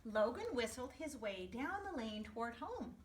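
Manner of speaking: put-on gentle storybook narration to kids; storyteller voice for young listeners; reading to children. A narrator's reading. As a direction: read it like story time for a class. Reading picture book to class.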